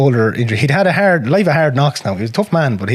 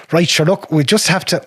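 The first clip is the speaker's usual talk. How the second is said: imitating dad; 7 semitones higher than usual. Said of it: "And he'd be like".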